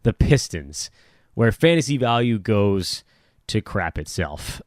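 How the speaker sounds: drawn-out tagline, sinking into deadpan; sarcastic enthusiasm. Pretend. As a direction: plug it with no enthusiasm at all. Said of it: "I will have that level of enthusiasm".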